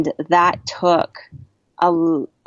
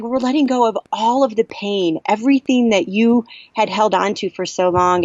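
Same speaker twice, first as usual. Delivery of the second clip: raised pitch easing back down; worked-up retold cry; 4 semitones higher than usual. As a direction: start high and emotional, settle toward normal talk. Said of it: "I just started screaming to him".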